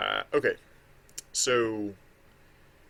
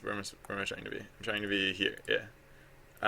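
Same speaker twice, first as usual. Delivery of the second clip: spooky voice; 2 semitones lower, 9 dB quieter than usual. Real, not acted. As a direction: drone it like a ghost. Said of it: "I don't know why I'm talking in a spooky voice".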